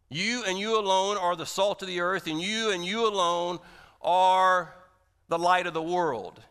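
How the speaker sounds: "you" hit hard each time, "are" punched loud; emphatic you. Real, not acted. Preacher to congregation, hammering "you and you alone" loudly. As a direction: drive "you and you alone" home. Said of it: "it's emphatically stated".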